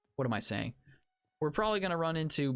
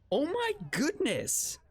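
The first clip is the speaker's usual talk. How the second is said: stunned dismay; 11 semitones higher, slower than usual. Real, not acted. Overwhelmed by enemies.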